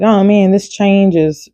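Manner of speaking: mildly put-upon griping; a touch of mock whining; whiny complaining. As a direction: grumble lightly, imitating your own fussing. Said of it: "fussing, whining, complaining".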